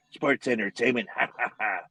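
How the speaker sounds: lightly mocking promoter voice with a fake laugh; Vince McMahon impression. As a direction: imitate the boss, then add a mock ha-ha. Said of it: "He tries to do his Vince McMahon".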